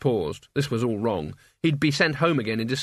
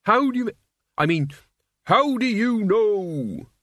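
stammering, slow astonished question; flustered; 8 semitones higher, 3 dB louder, slower than usual. A narrator's reading. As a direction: trip over the words, baffled. Mort flustered.

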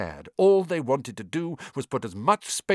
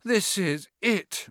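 moaning; 11 semitones higher, slower than usual. A narrator's reading. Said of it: "Ron moaned".

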